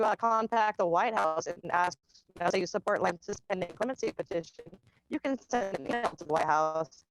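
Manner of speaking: choppy, glitchy call audio; breaking up like a bad connection; robotic voice. Real, not acted. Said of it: "voice is getting robotic".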